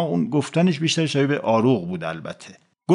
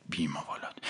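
hissed rebuke; 9 semitones lower, 16 dB quieter than usual. Acted. Official hisses at his man.

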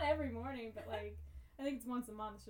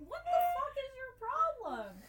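exasperated yell; 13 semitones higher, 9 dB louder than usual. Retold or imitated. Yelling at the dog in car.

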